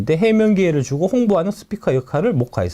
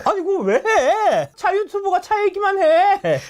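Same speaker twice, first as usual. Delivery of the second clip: mocking commenters; slower than usual. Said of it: "막 뭐라 하더라고".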